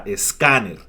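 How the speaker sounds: "escáner" with the accent on the middle syllable; stress on the A. Shown as a demonstration. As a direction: lean on the CÁ in "escáner". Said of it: "con acento en la A".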